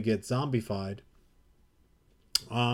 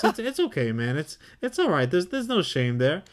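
mock consoling; 4 semitones higher, 4 dB louder than usual.

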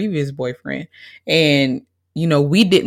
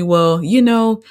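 quoting the doctor; 3 semitones higher, 3 dB louder than usual. Retold or imitated. Woman retelling her doctor's careful news about having kids. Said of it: "the second time she told me".

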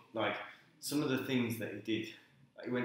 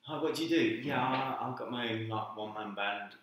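nervous awkward small talk; 2 semitones higher than usual. Retold or imitated. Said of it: "really awkward networking events".

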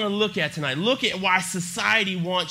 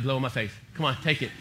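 blissed-out dog; 6 semitones lower, 4 dB quieter, faster than usual. Acted. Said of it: "he sits there and he's like".

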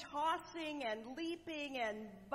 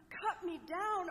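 higher and louder, fearful echo of cut me down; frightened repeat; 5 semitones higher, 3 dB louder than usual. A narrator's reading. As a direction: repeat it in rising alarm. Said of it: "A trembling fear shook Bamboo".

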